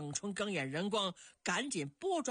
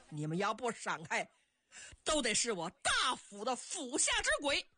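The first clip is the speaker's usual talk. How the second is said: threat climbing in pitch to the end; shouted threat; 2 semitones higher than usual. Acted. Axe-wielding general threatens soldiers blocking him, shouting. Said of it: "王良嚷着".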